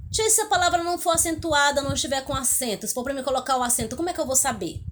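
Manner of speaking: lightly voiced pupil, starting high and hurrying on; pupil's question. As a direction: pipe up quickly with a pupil's doubt.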